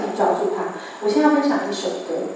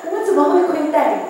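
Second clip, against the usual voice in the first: laughing producer; 12 semitones higher, 3 dB louder, faster than usual. Retold or imitated. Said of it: "他给我大笑说".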